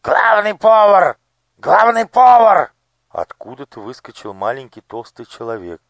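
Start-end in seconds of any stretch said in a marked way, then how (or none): 0.0-2.7 very high, very loud, slow calling out; shouting. A narrator's reading. Master of ceremonies summons the head cook, shouting. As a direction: call the head cook across the palace. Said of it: "закричал".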